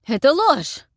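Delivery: high, loud outraged protest; indignant outburst. A narrator's reading. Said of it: "возмутился Герхард".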